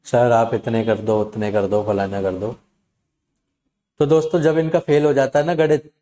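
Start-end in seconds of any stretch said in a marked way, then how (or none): 0.0-2.5 coaxing sweetly. Retold or imitated. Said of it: "वो प्यार से बात कर रही थी".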